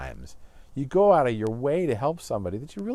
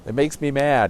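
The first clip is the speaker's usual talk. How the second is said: angry father; 4 semitones higher, 6 dB louder than usual. Retold or imitated. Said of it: "he says".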